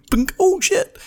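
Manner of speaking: squeaky high yelp of shock; sudden high-pitched oh shit; mock surprise. Imitating fender bender.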